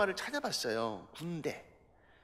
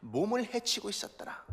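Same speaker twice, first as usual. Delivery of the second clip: verse phrase repeated softly for reflection; quiet repeat; 7 dB quieter than usual. Shown as a demonstration. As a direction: drop the voice and say 몸을 해치고 있었더라 gently. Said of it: "또 하나".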